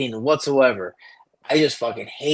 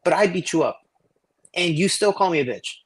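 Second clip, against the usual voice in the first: higher, exasperated talking-to; lecturing mentor; 5 semitones higher than usual. Retold or imitated. Mentor scolding Igor about fighting, higher exasperated lecture. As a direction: push the point home to the kid. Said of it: "I was like".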